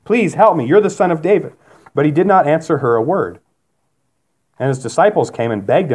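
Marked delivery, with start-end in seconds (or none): 0.0-1.5 higher-pitched mild plea; crying out. Acted. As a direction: cry out for help, without shouting. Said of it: "She's crying out to Jesus".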